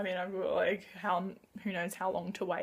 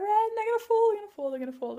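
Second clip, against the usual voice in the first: high burst of alarm, then dropping; real mild panic, repeating quickly; panicked; 11 semitones higher, 5 dB louder, faster than usual. Real, not acted. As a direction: blurt it as the pile starts to topple. Books about to topple in hands.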